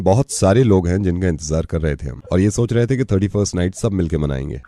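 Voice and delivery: grave appeal, sentence ends sinking low; solemn radio monologue. Acted. Radio host tells a partygoer of the dead who cannot come, solemn. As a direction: deliver a sombre tribute, letting each thought fall away.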